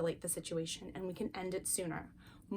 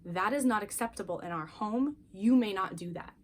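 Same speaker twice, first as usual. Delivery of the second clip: calm, firm and even; steady calm parent voice, no yelling. Retold or imitated. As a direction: set the limit calmly without raising your voice. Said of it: "I can say to them calmly".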